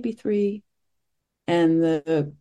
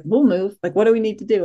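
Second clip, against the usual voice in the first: bright and louder, keen to help; earnest helpful pipe-up, raised voice; eager offer; 4 semitones higher, 5 dB louder than usual. Retold or imitated. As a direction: call out the offer, a bit higher. Piping up to offer seats.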